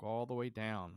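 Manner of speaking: stretched "all" at ordinary pitch, falling; downward sweep. Retold or imitated. Climber looks down the pole, stretched falling "all". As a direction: draw out "all" and let it sink on "down". Contrast with looking up.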